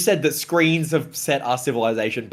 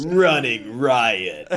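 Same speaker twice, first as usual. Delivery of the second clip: Halo announcer; much slower than usual. Retold or imitated. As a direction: drag out the callout. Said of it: "impression of the Halo guy".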